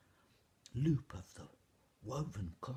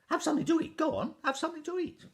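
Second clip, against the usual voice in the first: high, loud, booming giantess coaxing; a big hearty giantess urging the children to eat; 12 dB louder, faster than usual. Acted. Giantess coaxing the children to eat, high and loud.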